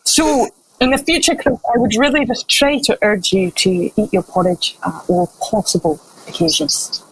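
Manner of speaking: put-on Scottish accent, sinking in pitch and softening at the end. Tricorder advises patient to eat porridge, in a Scottish accent. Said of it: "I'll do it in a Scottish accent".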